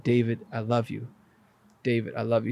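low, soft, unhurried declaration; quietly voiced "I love you"; tender quoted message. Repeats visitor's loving words.

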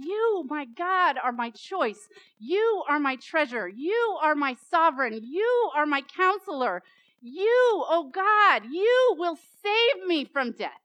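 loud, rising praise, punching each you; fervent declaration. Acted. Preacher voicing David declaring God his treasure, building loud. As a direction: proclaim it with mounting fervor. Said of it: "and he's saying".

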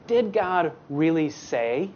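slow, sly question; a lightly voiced scheming serpent. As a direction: plant the doubt slowly, like a tempter. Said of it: "the serpent... he says".

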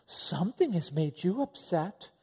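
lightly voiced sugary peacemaker, slow; a hint of fake calm, slowly; mock calm peacemaker. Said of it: "And I was like".

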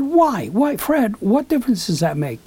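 high, pleading challenge to himself; self-reproach. Retold or imitated. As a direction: take yourself to task, starting high. Scolds himself in retold inner talk.

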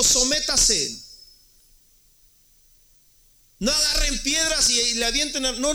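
high, loud preacher's sermon voice, pressing each point hard; preaching at full force. Acted. Pastor urging the brothers to submit, fiery preaching. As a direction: hammer the apostle's words at the congregation.

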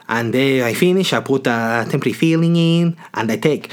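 put-on foreign English; imitated dentist's accent. Dentist to patient about the filling, put-on foreign accent. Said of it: "why I went Russian".

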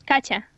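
Katya said the Russian way; Russian pronunciation. Shown as a demonstration. Guest repeating her name for the host, Russian pronunciation. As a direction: model "Katya" in Russian for a learner. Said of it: "say it one more time".

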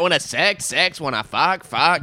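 teasing imitation of a street catcaller; mocking the catcaller. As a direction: parrot his creepy pitch with rising ends. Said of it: "Why did he say it like that?".

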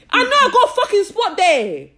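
loud laughing vent about nosy comments; laughing outburst. Real, not acted. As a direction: burst out, half angry and half laughing.

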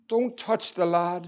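low and soft, a quiet command; hushed voice from heaven. Acted. The Father of heaven stops Abraham, low and hushed. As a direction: stop him with a soft but firm word.

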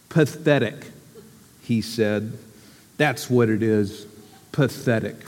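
lightly voiced gloomy Eeyore. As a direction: sigh the words out like a glum old donkey.

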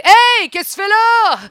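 high, loud, hammed-up surprise at the husband; fake surprise. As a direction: burst out as if caught off guard at the hotel. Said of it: "j'ai dit".

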